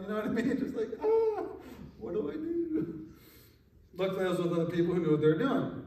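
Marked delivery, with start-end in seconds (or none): 1.0-3.1 high-pitched, drawn-out comic fright; mock panic. Scared teen among gangbangers with pistols, mock panic. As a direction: play up being helplessly out of place.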